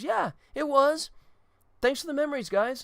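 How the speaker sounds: hammed-up parting line; Norm's farewell. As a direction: deliver the punchline while walking off.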